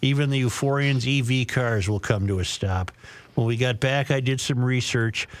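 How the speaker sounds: measured radio read of a listener letter; letter read on air; reading a letter aloud. Acted. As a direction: read it out to the audience, phrase by phrase.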